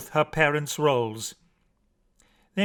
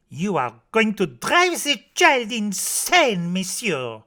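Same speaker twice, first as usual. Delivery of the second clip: higher-pitched maid's protest; 5 semitones higher than usual. A narrator's reading. Maid scolding Papa over his story, raised protest. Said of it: "she says".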